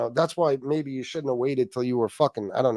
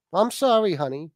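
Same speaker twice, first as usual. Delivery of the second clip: mock meek apology; 5 semitones higher than usual. Husband apologizes to wife trying to sleep, mock meekness. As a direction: play a chastened husband backing down.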